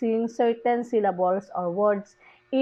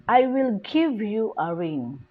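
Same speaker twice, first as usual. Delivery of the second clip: "give" and "ring" stressed, falling at the end; content word stress. Shown as a demonstration. Teacher reading a stress example, weight on "give" and "ring". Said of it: "the stress is give".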